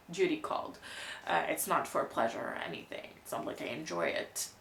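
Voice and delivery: dry sarcastic denial, dropping low; deadpan, mock-reluctant. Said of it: "That was sarcasm".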